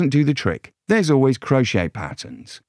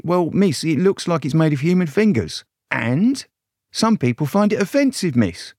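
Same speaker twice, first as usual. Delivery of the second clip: raised, polite policeman voice; a timid bobby, higher pitch; nervous young constable; 6 semitones higher than usual. Acted.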